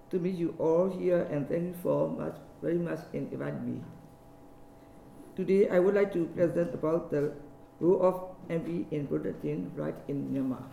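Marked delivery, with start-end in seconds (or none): 5.3-10.6 hoarse voice from a sore throat. Real, not acted. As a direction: talk through a sore, scratchy throat. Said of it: "I am suffering from sore throat".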